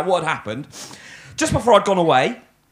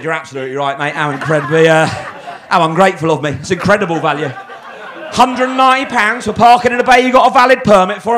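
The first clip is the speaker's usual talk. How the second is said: sarcastic; 5 dB louder than usual. Retold or imitated. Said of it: "Don't be sarcastic".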